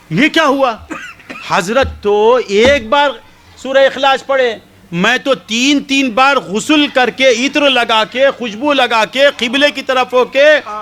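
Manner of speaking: high, indignant outburst with a laugh; shocked complaint. Retold or imitated. Woman finding only dark soil, high indignant protest. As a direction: protest that you did everything right.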